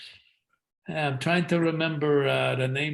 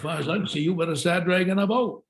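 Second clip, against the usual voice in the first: lilting New Hampshire accent, pitched higher; 4 semitones higher than usual. Shown as a demonstration. An actor demos a New Hampshire accent for the host. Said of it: "New Hampshire comes up like that".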